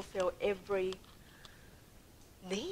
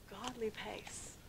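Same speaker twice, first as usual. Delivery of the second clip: slow, soft GODLY PACE; unhurried pace; 11 dB quieter, slower than usual. Shown as a demonstration. Contrasting running ahead with God's walking, slow "godly pace". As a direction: stretch out "godly pace" quietly, without any rush. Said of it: "walking at this".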